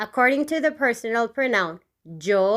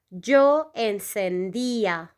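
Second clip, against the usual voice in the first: slow model pronunciation; slower than usual. Shown as a demonstration. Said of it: "The conjugation will be".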